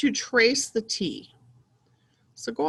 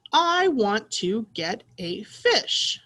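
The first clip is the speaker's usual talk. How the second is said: read more smoothly; much slower than usual. Shown as a demonstration. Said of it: "Now let's read it a little faster".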